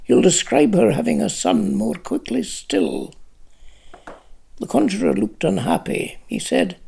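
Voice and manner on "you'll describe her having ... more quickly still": cold. A narrator's reading. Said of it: "said Lanark coldly".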